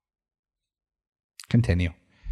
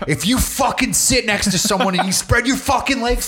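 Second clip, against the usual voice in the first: higher, intense sing-song rant; Gary Vee impression; 7 semitones higher than usual. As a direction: hype it like a pumped motivator. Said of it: "he should be like".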